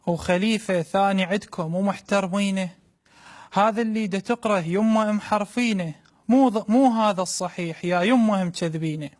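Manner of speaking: mother's voice in Iraqi dialect; iraqi arabic accent. Acted. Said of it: "فتخاطبه الأم باللهجة العراقية".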